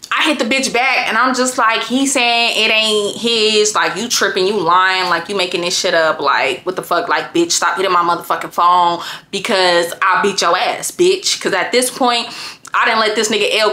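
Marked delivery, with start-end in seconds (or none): 1.8-11.4 low threatening. Retold or imitated. Low threatening message to other woman.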